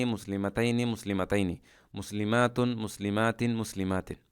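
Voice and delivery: rhythmic chanted word list, each ending falling; steady classroom chant of the forms; recitation drill. Shown as a demonstration. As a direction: recite the forms one after another like a drill. Recites the declension table.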